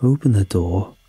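composed, understated command; calm. A narrator's reading. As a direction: give the order calmly. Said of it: "he said calmly".

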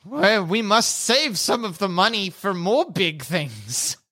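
slow, lightly voiced dim giant; a hint of a dopey brute; two bickering giant voices. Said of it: "two-headed creature bickering".

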